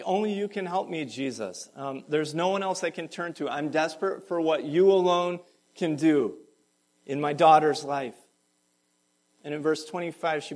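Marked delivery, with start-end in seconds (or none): 0.0-8.2 rising, louder pleading to Jesus; desperate plea. Acted. Mother begging Jesus for her daughter, desperate. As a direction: cry out for help, building.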